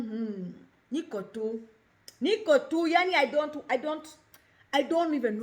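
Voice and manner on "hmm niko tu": withdrawn voice. Shown as a demonstration. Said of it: "the tone of my voice will change".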